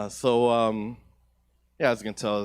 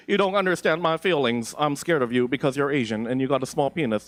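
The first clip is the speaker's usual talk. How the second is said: Karen voice; 3 semitones higher, 6 dB louder than usual. Pretend. Karen robot breakdown.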